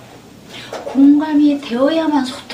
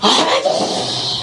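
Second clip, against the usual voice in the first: crying out to father; much slower than usual. Retold or imitated. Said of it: "하면서 막 우는 거예요".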